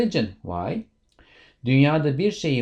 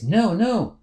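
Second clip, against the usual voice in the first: higher, louder spiteful insistence; spiteful demand; 5 semitones higher, 5 dB louder than usual. Acted. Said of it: "And Boris says".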